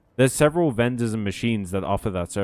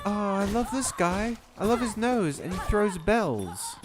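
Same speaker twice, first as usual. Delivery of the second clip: delighted gush; 9 semitones higher, 5 dB quieter than usual. Real, not acted. Gushing over a cute character.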